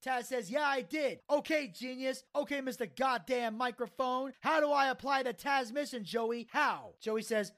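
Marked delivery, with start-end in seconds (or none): 0.5-6.9 higher, indignant wrestler retort, retold; passionate promo. Taz quizzes Joey on his move, passionate promo. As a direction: challenge him in a mock promo. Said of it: "Taz coming out with the passionate promo".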